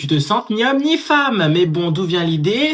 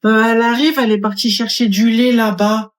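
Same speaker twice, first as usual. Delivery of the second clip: put-on louder, childlike girl voice; little girl voice; 4 dB louder than usual. Small girl at the checkout telling the cashier about mum.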